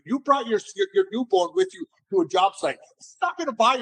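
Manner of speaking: high-pitched, mock incredulous reaction; imitated amazed customers. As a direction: play an astonished onlooker, voice pitched well up. Voices amazed customers at job site.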